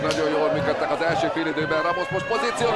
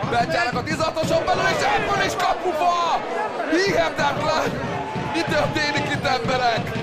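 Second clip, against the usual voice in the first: rising to a thrilled call; excited sports commentary; 5 semitones higher than usual. Real, not acted. Live play-by-play, shot hits post.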